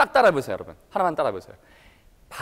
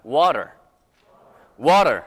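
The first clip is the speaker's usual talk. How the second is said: American accent; 5 semitones lower, 4 dB louder, much slower than usual. Shown as a demonstration. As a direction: say "Water" the American way, t almost a d. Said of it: "미국식 발음은".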